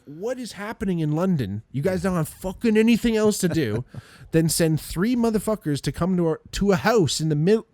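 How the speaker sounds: high-pitched, incredulous rant; incredulous outrage. Acted. Storyteller mocking the police sending three cars over a tiny fare, incredulous outrage.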